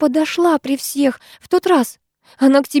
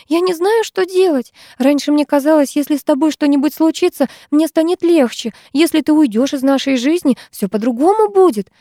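higher, tearful and despairing; despairing tears; 7 semitones higher than usual. A narrator's reading. Lyusya confesses her despair to Vera, tearful. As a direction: sob it out, voice pitched up high. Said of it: "глотала слёзы девчонка".

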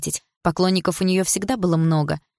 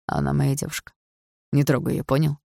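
menacing. A narrator's reading. Misha shielding his girlfriend from Andrei, restrained threat. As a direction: warn him off with contained menace. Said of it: "с угрозой в голосе сказал".

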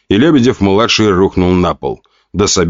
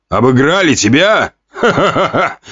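scornful laugh breaking out; mocking laughter; 7 semitones higher than usual. Duke laughs scornfully at his beaten son, mocking laughter. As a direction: laugh in his son's face. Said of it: "вдруг рассмеялся герцог".

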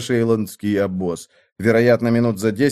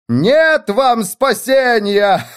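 high slow threat then cackling; demonic laughter; 12 semitones higher, much slower than usual. A narrator's reading. The widow mocking the fleeing men, demonic laugh. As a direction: gloat and break into wicked laughter. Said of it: "С демоническим смехом".

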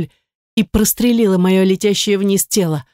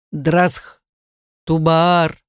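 man shouting; much slower than usual. Acted. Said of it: "крикнул на меня мужчина".

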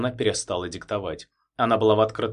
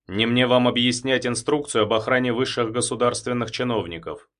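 official tone; 4 dB louder than usual. Acted. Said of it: "перешёл на официальный тон".

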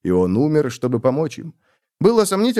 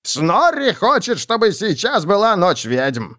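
Snorri voice; 9 semitones higher, slower than usual. Acted. Snorri speaks in third person.

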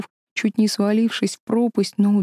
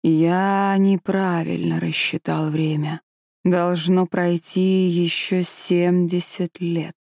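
tired dragon mutter; slower than usual. Acted. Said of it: "устало пробормотал".

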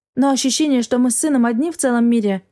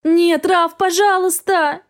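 desperate begging; 7 semitones higher, slower than usual. A narrator's reading. Mother begging for her child.

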